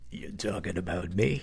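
low, nasty, mean radio DJ voice. Interrupting the host's talk about inner critics, a mean dj voice. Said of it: "mean DJ voice".

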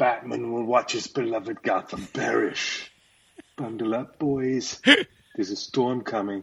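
low movie-trailer villain voice. Offering the others a Mr. Freeze trailer; Mr. Freeze voice. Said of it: "my Mr. Freeze trailer".

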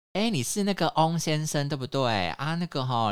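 put-on loud, high, middle-aged auntie manner of talking. Recounting a caller asking for mr. weng, imitating a middle-aged auntie tone. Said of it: "口就很阿姨的口气".

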